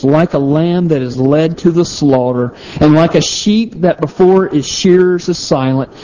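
measured recitation in even, rolling phrases; scripture reading. Real, not acted. Preacher reads Isaiah's prophecy to listeners, measured scripture reading. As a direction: read the verses out deliberately.

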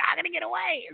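high-pitched imitation of a panicked wail; mock freaking out. Caller retells the burglar fleeing police, mock freaking out. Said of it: "starts crying and freaking out".

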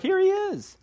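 high, thrilled voice; breathless, delighted introduction; excited announcement. Retold or imitated. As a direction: announce him like a friend who finally showed up. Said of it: "you're like".

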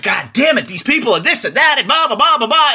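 high, loud mock rant breaking into laughter; retold angry rant. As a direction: replay the fury, laughing at it now. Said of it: "I was angry".

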